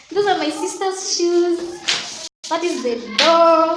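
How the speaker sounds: echoing in an empty room; hallway echo. Real, not acted. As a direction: speak into a bare hall. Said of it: "As you can hear, that is my echo".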